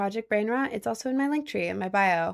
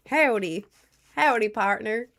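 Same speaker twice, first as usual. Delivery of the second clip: lightly put-on Southern cowboy greeting; Southern cowboy accent. Streamer as cowboy greets chat, mild Southern accent. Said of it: "the whole thing in a Southern accent".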